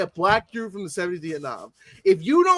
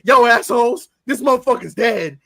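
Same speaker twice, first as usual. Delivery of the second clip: loud, higher shouted warning; mock yell; 5 semitones higher, 8 dB louder than usual. Retelling a movie scene, yelling at the actors. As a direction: yell it at the crew. Quoting Nick Nolte scream scene.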